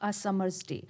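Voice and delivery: drawn-out, measured reading of the line; slow line reading. Shown as a demonstration. Teacher reads out the example line, slow and measured. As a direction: recite the verse line very slowly. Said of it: "जैसे ये एक line आपके सामने मौजूद".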